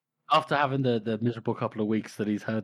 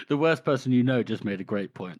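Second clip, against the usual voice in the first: louder, laughing through it; 4 semitones higher, 6 dB louder than usual. Real, not acted. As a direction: deliver the line while cracking up. Laughing summary joke.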